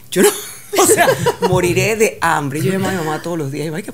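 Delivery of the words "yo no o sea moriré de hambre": laughing despair. Retold or imitated. Refusing sardine yogurt.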